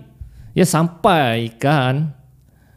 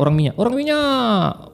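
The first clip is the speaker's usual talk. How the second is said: mock scream; 8 semitones higher than usual. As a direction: imitate a woman raising the alarm. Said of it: "Tapi dia teriak".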